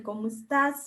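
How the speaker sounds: "cómo estás" with the E of "estás" left out; Mexican dropped E. Shown as a demonstration. Teacher shows students the Mexican way of saying it, E dropped. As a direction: run "cómo" straight into "stás". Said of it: "sin necesidad de pronunciar la E".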